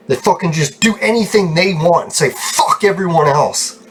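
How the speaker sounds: real exasperated complaining; angry venting. Real, not acted. Venting after fight with roommates.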